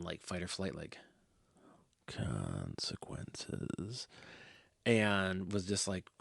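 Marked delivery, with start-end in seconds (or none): 2.1-4.1 "consequences" dragged out very slowly, far lower, rising at the end; ominous consequences. Pretend. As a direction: intone "consequences" like a deep, slow doom voice. Fearing a fight, dread.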